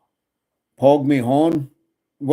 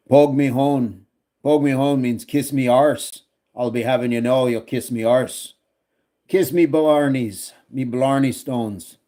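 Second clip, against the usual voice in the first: badly faked Irish accent; terrible Irish accent. Streamer joking with chat in Irish slang, bad Irish accent. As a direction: play at a stage-Irish accent, "me" for "my". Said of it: "These are terrible, terrible dialects".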